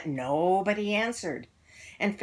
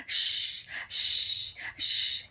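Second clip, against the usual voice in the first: shushing; much slower than usual. A narrator's reading. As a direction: hush the class gently. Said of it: "Miss Nelson would go".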